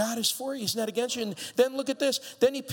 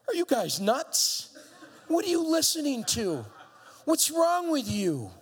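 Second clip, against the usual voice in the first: laughing disbelief; 4 semitones higher than usual. Acted. David scoffing at the frightened army, laughing. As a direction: laugh at how silly the army is. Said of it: "and he says".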